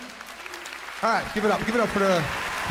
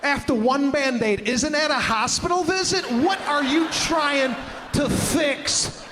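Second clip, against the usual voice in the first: mock disbelief; slower than usual. Mocking the Band-Aid guy.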